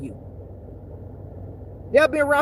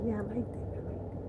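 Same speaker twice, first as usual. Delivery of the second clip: gloating devil whisper; 13 dB quieter than usual. Retold or imitated.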